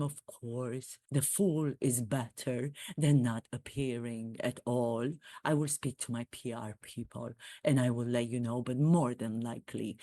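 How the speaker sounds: royal caller to Jimmy Fallon in a mock English accent. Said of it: "my reenactment of my conversation".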